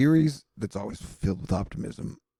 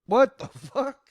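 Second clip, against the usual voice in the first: high, loud disbelieving "what the fuck"; high-pitched stunned cry; shocked outburst; 10 semitones higher, 3 dB louder, slower than usual. Retold or imitated. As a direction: squeal it out in shock. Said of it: "I'm like".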